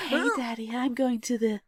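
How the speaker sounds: creepy close whisper. Pretend.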